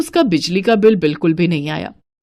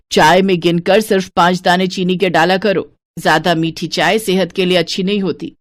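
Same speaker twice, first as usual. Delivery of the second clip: lightly lowered stingy mother-in-law voice. Acted. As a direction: count every piece like a miser. Santosh rations sugar.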